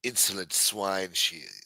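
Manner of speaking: slow, haughty put-on British accent; mock-British scorn, unhurried. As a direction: draw it out like a disdainful Brit. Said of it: "it just sounds better when you say it British".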